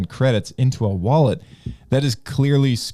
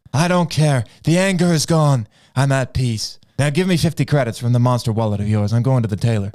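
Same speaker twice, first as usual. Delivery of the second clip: Anakin. Acted.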